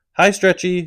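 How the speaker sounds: put-on high-pitched baby talk. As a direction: coo at it like a baby. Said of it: "assuming a high-pitched baby talk voice".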